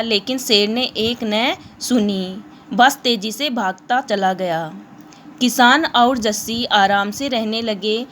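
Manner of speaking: reading the chapter story aloud to the class; steady storybook narration for students. Acted. Teacher reads chapter story aloud.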